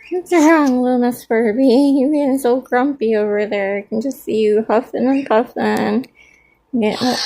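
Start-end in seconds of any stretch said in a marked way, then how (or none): 0.1-3.8 teasing pet talk. Real, not acted. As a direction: tease the grumpy bird playfully. Teasing a grumpy pet bird.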